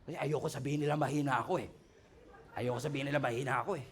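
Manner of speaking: quick, soft muttered excuse; a hint of a sulky driver; stubborn driver. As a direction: grumble like a proud sleepy driver. Voicing a stubborn tired driver.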